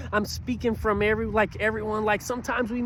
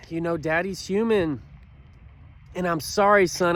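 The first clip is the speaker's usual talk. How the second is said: kneel down and say sorry gently; tender apology to son. Retold or imitated. Dad apologizing to his son.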